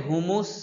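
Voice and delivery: হুমুস said with a plain s sound as the wrong version; a teacher demonstrates the mistaken হুমুস; wrong pronunciation. Shown as a demonstration. Teacher shows students the common error, then the wrong sound. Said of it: "এটা সম্পূর্ণ ভুল".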